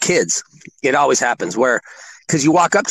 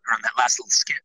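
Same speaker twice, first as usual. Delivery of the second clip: whisper; 4 semitones lower, 5 dB quieter, faster than usual. Real, not acted. Confessing embarrassed aside.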